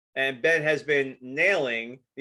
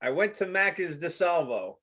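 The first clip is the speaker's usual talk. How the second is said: Brooklyn-sounding Australian attempt. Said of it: "mine sounded Brooklyn as hell".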